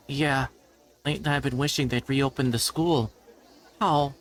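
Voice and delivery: a lightly voiced Reina wishing school would reopen; gentle schoolgirl. Voices a shy friend.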